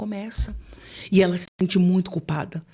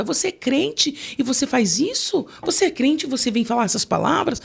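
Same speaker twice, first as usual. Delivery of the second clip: guilt-trip her faith; mother's rebuke; 6 semitones higher than usual. Retold or imitated.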